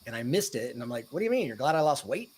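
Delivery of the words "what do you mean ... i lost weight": high, surprised what do you mean; a dad caught off guard, asking with a jump in pitch; puzzled question. Retold or imitated. Dad to teenage son in the car, surprised and high-pitched. Dad misses son's serious point.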